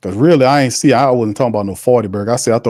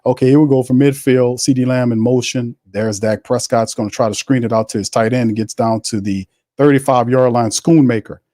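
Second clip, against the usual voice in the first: play-by-play commentary. Acted. Calls the game play-by-play.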